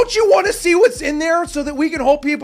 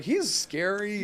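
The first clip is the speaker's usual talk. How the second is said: mock frightened people; 4 semitones lower, 9 dB quieter, much slower than usual. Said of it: "people are gonna start to get like".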